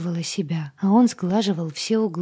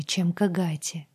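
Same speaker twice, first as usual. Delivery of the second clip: usual speaking voice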